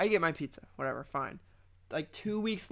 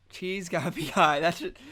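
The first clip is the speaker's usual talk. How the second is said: laughing; 5 dB louder than usual. Shown as a demonstration. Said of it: "that should be the title".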